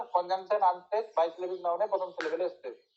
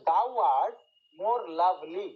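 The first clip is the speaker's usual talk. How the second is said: THOU ART slowly drawn out, then MORE LOVELY; teacher's measured scansion of "thou art more lovely"; scanning verse; much slower than usual. Shown as a demonstration. Reading verse aloud to show stresses.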